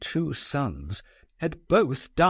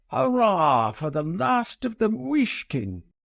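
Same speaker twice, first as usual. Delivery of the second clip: put-on drunken, tipsy, very high-pitched cheering cry; 9 semitones higher than usual. Narrator reading Lebedeff cheering the prince's news: drunken voice. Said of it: "cried Lebedeff in a drunken voice".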